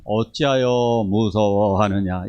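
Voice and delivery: 어찌하여 무서워하느냐 drawn out slowly and gently; slow mild reading. Shown as a demonstration. Preacher showing the mistaken gentle reading, slowed right down. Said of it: "이거 아니라고 말씀드렸어요".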